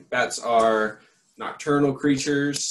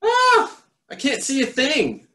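much higher, louder panicked yell; 6 dB louder than usual. Acted. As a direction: yell it blind in the dark. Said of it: "yelled Pip".

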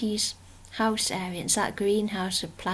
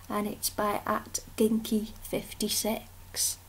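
library whisper; 4 dB quieter than usual. Real, not acted. Soft ASMR-style artwork show.

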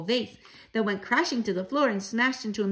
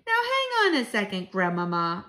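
put-on interrupting child. Boy challenges grandmother in story.

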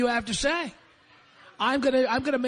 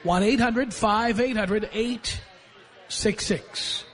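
slow repeat; slower than usual. Shown as a demonstration. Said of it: "repeats the number slowly".

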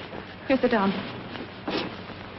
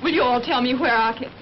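lightly put-on Southern accent. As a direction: slip into a Southern "you all". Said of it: "pardon my southern accent".

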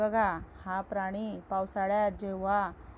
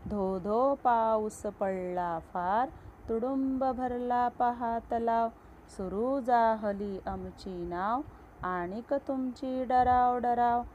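slow, rhythmic poem reading; poem recitation; 2 semitones higher, slower than usual. Acted. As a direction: recite it slowly with a beat, like for a class. Reciting the next stanza.

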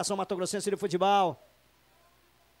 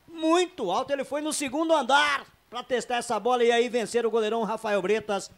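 raised, heated play-by-play; excited commentary; 3 semitones higher, 4 dB louder than usual. Real, not acted. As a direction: keep the energy high over the replay.

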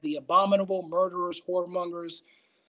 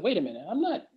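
higher, wavering mock protest; protesting in a put-on higher voice; mock self-excusing doubter; 4 semitones higher, faster than usual. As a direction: lightly play someone pleading their own case. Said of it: "you could say to yourself".

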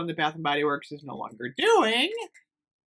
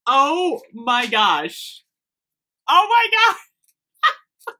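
real excitement building to a high squeal; slow, loud, escalating delight; freaking out; 7 semitones higher, 7 dB louder, much slower than usual. Real, not acted. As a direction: draw it out, louder and higher, overwhelmed. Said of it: "freaking out".

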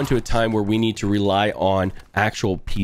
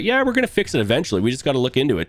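mocking dismissive voice; faster than usual. Mocking the cheat company's reply.

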